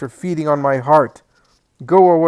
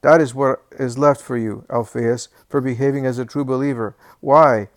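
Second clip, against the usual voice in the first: put-on querulous old man's rant; 3 semitones higher, 8 dB louder than usual. Old Alphaeus rants at his family, loud and querulous. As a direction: rail at everyone like a bitter, sick old man. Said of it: "a querulous voice is heard".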